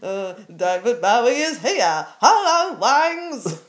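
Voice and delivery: lightly voiced rock star drifting towards Steptoe; a hint of a grumpy old man; Harold Steptoe. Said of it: "That sounded more like".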